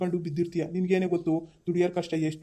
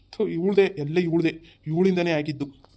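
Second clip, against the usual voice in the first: louder, spitting out the blame at her; slow, bitter accusation aimed at the wife; angry blame; 3 dB louder than usual. Acted. Husband blames wife in quarrel. (ಸಿಟ್ಟಿನಿಂದ ಗಟ್ಟಿಯಾಗಿ ದೂರುವುದು)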